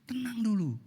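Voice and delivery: hushed breathy whisper; whispered calm. Acted. Preacher whispering to the congregation to calm down first. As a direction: hush them down to calm.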